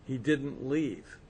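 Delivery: ordinary talk, nothing marked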